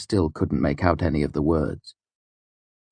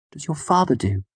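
higher, soothing question; gentle, calming; 10 semitones higher than usual. A narrator's reading. Denner coaxing the frightened girl to talk, gentle and calming. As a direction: ask as if settling a skittish animal. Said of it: "gentle tone my father had used when talking to skittish animals".

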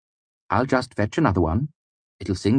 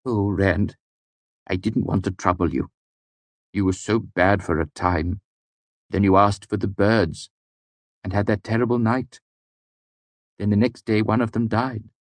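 rising higher, ever faster anxious confession; words tumbling faster; 4 semitones higher than usual. A narrator's reading. Servant confesses to his master, tumbling faster and higher. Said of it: "his words came faster and faster".

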